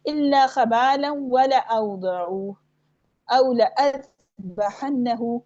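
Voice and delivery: slow tajweed chant, short la in "लअज़बहन्नहु"; silent-alif recitation. Shown as a demonstration. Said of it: "इसको ऐसे ही पढ़ना है".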